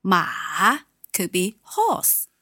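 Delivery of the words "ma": ma dipping down then up, third tone. Shown as a demonstration. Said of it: "third tone".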